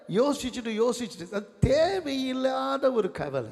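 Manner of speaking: high, drawn-out preacher's rebuke; emphatic preaching. Real, not acted. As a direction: stretch the key words to drive the point home. Preaches with force.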